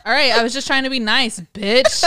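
laughing insult. Retold or imitated. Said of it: "And I said".

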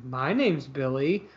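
low, slow creepy line; creepy guy voice. Retold or imitated. Guy answering her call, low and slow creepy. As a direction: lean in like a creep. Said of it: "that guy goes".

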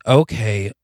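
lightly mocking deference on "boss"; sarcastic. Man handed the bags by his new boss, sarcastic.

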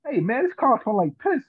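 a hint of a mock Indian accent. Guy at the table complaining about the smell, light mock Indian accent. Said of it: "he did it in his little accent".

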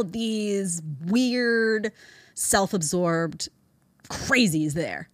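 drawn-out scornful words; slow scorn. Real, not acted. Host picturing sending critics away, slow and scornful. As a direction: stretch each word with contempt.

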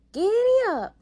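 high, very loud riding cry; shouted command. A narrator's reading. May May spurs the stubborn horse, shouting. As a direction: holler to get the horse moving.

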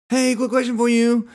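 high, loud sales-pitch call; chirpy salesperson. Retold or imitated. Kiosk salesperson calling out to a passing shopper, high and chirpy. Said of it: "the little cell phone people".

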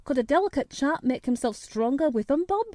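put-on country boy telling his tale in dialect; lilting, good-natured Yorkshire storytelling; lightly voiced Yorkshire country lad. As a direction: relate it simply, in broad dialect.

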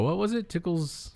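high, puzzled callback; high-pitched recall. Real, not acted.

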